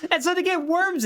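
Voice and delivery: high, laughing narration; laughing through words. Real, not acted. Telling a friend a silly story, laughing. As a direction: giggle the line out.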